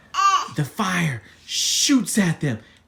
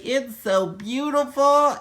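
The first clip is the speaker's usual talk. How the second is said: awed delight; 9 semitones higher than usual. Acted. Yodi awed in the sky.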